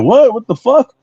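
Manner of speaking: high, baffled what; mock confusion. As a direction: act thrown by the greeting. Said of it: "And I'll be like".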